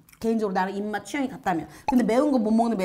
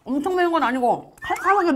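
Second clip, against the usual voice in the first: chewing while talking; speaking between bites; mouth full; 6 semitones higher than usual. Real, not acted. Seen 1: Left speaker chews food mid-sentence, hand near mouth.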